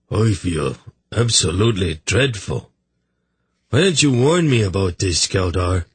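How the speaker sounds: lightly voiced miserable king, complaining; a touch of hungover self-pity; hungover sufferer. Hungover king complains to his brother, lightly voiced misery.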